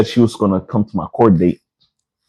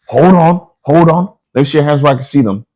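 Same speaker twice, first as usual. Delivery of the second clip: higher-pitched, urgent cop order; mock cop alarm; 5 semitones higher than usual. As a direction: imitate an officer suddenly on alert. Acting the cop's sudden command.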